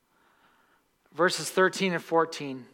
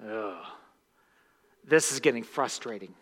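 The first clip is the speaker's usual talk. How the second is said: mild frustration; 6 semitones lower than usual. Retold or imitated. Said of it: "And after three".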